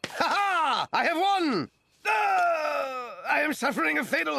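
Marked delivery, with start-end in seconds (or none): 0.1-1.7 hammy triumph. Acted. Hero triumphs in play. 2.1-3.1 hammy death cry. Acted. Hero has heart attack.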